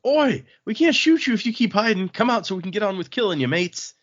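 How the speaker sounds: sling a bad mixed British accent at a hidden foe; jeering taunt in a jumbled fake accent; awful mixed accent. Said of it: "That is such an awful accent".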